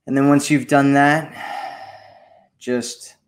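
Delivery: unhurried guided meditation with long pauses. Acted. Host guiding listeners to breathe in healing energy, calm meditation delivery. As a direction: guide listeners through breathing, leaving space between phrases.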